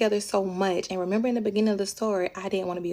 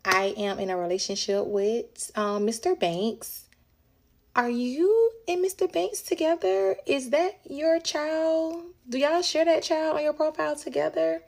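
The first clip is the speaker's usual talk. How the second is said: confronting the other woman; 5 semitones higher than usual. Retold or imitated. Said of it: "I was like".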